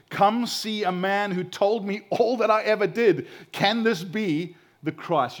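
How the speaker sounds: loud and high, calling to the whole town; woman running into town, amazed and calling out; excited calling out. Acted. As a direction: call the townspeople in wonder, slowing on the question.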